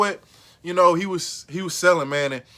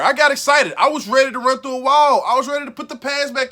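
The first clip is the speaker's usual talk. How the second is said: excited; 3 semitones higher than usual. Real, not acted. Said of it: "I got fucking excited".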